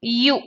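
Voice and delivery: U sounded out on its own; sound demonstration. Shown as a demonstration. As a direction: say U as "you", with a y glide. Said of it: "the pronunciation is".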